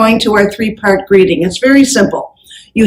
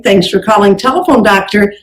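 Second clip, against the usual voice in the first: phone greeting demo. Shown as a demonstration. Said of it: "Then you use your company name".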